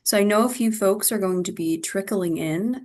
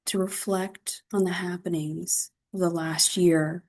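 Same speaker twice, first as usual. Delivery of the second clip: guided meditation. Acted. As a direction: guide them gently into reflection, phrase by phrase. Leads a mindfulness practice.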